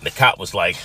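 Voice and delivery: ordinary delivery, nothing marked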